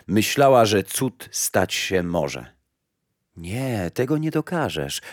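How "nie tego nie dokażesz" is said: a lightly voiced, softer lake; lake speaking. Lake tells the mother she cannot drink it, softly. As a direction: let the lake refuse gently. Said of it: "rzekło jej jezioro".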